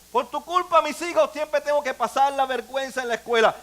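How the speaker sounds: jab each accusation at the partner; mock blaming spouse. Pastor playing a spouse who blames the other, accusing.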